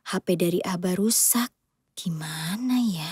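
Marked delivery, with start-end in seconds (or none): 2.0-3.1 whispered to herself, half teasing. Acted. Mother muses aloud.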